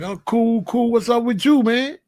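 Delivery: put-on reply casually, no Jamaican accent, American; own American accent. His reply to the brethren, own American accent. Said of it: "I don't do it with no accent".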